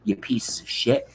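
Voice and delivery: hissed whisper of the insult. Real, not acted. A streamer repeating his insult to the chat in a whisper. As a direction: breathe it out unvoiced.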